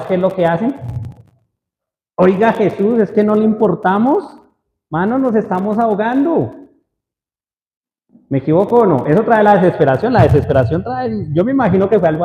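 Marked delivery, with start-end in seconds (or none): 2.2-6.6 higher, panicked cry to Jesus; frantic disciples begging for help; desperate plea. Retold or imitated. Disciples in the sinking boat cry to Jesus, panicked. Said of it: "una vez desesperados".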